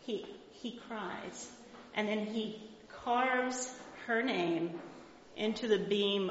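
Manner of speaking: slow and soft, lingering on each word; tender slow telling. Acted. Teacher retelling the grandfather's tears, tender and slow. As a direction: let it land gently.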